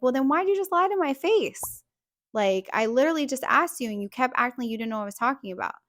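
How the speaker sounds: high, loud accusing outburst; heated retold confrontation. Retelling how she confronted him over a lie, indignant and loud. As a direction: raise the pitch and demand an explanation, easing off late.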